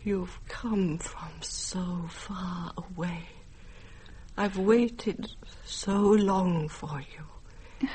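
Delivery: very slow, soft and tender; tender reunion. Acted. To the granddaughter she finally recognizes, slow tender softness. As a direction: hold her with the voice.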